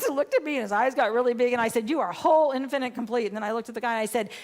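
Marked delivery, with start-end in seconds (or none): 1.9-3.3 loud, higher, forceful affirmation; retold angry insistence. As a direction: re-enact insisting at full voice. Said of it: "Somehow I got so mad".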